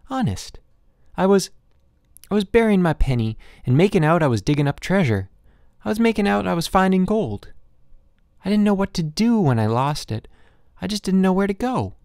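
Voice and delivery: put-on a boy begging to be believed; pleading boy. Boy pleads his innocence to father.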